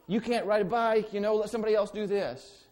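hammed-up cruel helper; mock dismissive scolding. Imagined helper telling a fallen child to give up, in mock scorn. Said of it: "Did they look at you and, and say".

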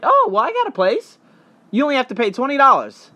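high, sweet sales pitch voice; imitating a slick local selling a cheap room; smooth salesman. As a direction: coax them like a friendly hustler. Scammer's pitch voiced in story.

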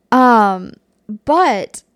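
loud burst of laughter; laughing. Real, not acted. Laughs at own mistake.

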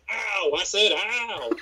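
high, drawn-out cartoon rooster impression; Foghorn Leghorn. Podcaster quoting a cartoon reference to co-host, Foghorn Leghorn impression. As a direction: stretch it out like a cartoon rooster, laughing. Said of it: "pretty clear Foghorn Leghorn reference".

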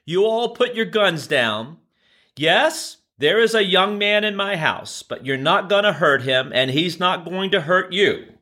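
calling out firmly. Retold or imitated. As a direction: call out to stop the officers, high and firm. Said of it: "she yells out".

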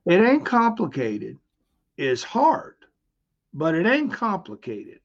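a hint of a Southern instructor; Southern accent. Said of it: "he had this deep Southern accent".

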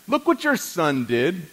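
slow, drawn-out joking accusation, leaning on "your son"; mock blame. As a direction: slowly hand the blame to your wife, teasing. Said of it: "I do it sometimes joking to Patty".

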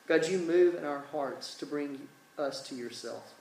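earnest, measured prayer with pauses. Real, not acted. Preacher praying to God for his listeners, earnest prayer. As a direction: pray aloud in unhurried phrases.

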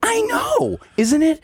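very high squeaky mock Liz; imitating Liz. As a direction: squeak it way up like a clueless lady. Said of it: "And she goes".

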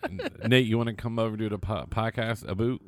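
hammed-up Canadian vowels on "boot"; mock Canadian accent. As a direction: put on a playful Canadian accent. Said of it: "we have to be like".

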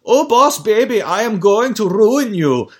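put-on loud, high German-accented villain voice; mock German-accented baby tyrant; Mega Fat CEO Baby. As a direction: threaten in a hammy German accent, slowly. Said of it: "who's got a German accent".

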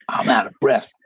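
breathless laugh through the words; laughing and out of breath. Real, not acted. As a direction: laugh it off, still winded.

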